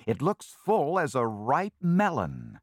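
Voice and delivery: eager little thief, loud and high; greedy ferret. Acted. Ferret eyeing the bandana.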